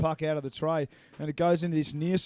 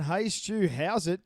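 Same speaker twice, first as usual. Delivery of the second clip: South African lingo; 2 semitones higher, slower than usual. Retold or imitated. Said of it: "channeling a little bit of South African type, uh, lingo".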